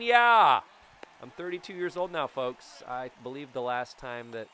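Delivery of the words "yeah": excited yeah. Real, not acted. Scored a run.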